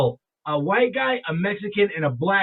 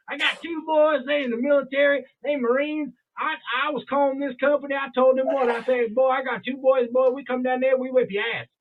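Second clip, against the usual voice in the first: put-on deep Southern accent; 6 semitones higher than usual. Stranger boasting to diners about his sons, imitated deep Southern accent. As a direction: imitate a Southern good old boy telling his troubles. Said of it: "the way he was talking".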